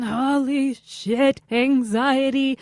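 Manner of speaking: hammed-up panicky gasp; vaudeville anxiety. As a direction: overplay the panic, vaudeville style. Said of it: "It was like a vaudeville version of it".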